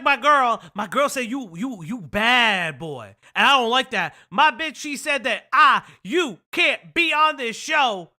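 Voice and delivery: hammed-up whiny boyfriend impression; mock Carlos voice. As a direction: parody of a jealous boyfriend. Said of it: "He was like".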